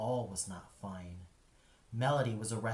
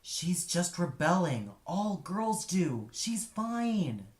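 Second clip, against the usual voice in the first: higher, breezy brush-off with the first line louder; dismissive wife; 6 semitones higher, 3 dB louder, slower than usual. A narrator's reading. Wife waves off her husband about their rebelling daughter, dismissive. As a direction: swat the worry away without a second thought. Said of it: "His wife would roll her eyes and swat away".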